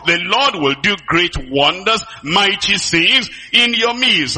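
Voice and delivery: slow, solemn preaching proclamation. Acted. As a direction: proclaim it slowly like a promise from God.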